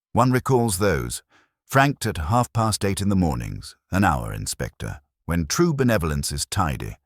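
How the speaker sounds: lightly voiced prim postmistress. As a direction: recall it like a proud, proper postmistress. Miss Ferry recalls the letters.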